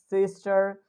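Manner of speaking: "sister" with an American R; American accent. Shown as a demonstration. Teacher lists examples for students, American accent. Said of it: "I'm speaking in American accent".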